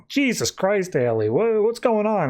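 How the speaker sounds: imitated alarmed reaction; retold shock. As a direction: act out a startled what-is-happening. Retold shock at sprouting blades.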